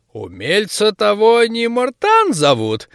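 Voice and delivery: slow, high squinting granny; suspicious old woman. Acted. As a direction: narrow your eyes and ask like a crone. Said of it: "бабка прищурилась". (прищурившаяся бабка)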